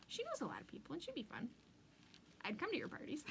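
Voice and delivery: whisper. Real, not acted. Gossipy aside about Linda.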